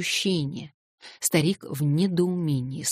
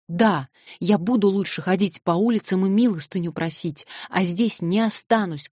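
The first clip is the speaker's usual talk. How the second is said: sobbing shout; 3 semitones higher than usual. Acted. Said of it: "кричала она, рыдая".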